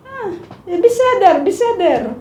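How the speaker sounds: high, light mock grandma soothing; Grandma's voice. Grandma calming frightened grandchild, lightly mimicked high voice. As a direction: imitate a grandma telling you to calm down. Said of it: "sasabihin ni Lola".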